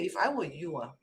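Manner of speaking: softly offered advice; nicely. Shown as a demonstration. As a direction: suggest it gently, keeping it soft. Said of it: "And I say it nicely".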